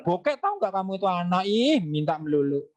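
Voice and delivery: fast, exasperated mock scolding; a nagging mom snapping at her begging kid; hammed-up irritated parent, quick and sharp; scolding mother. Mother scolding child asking mall.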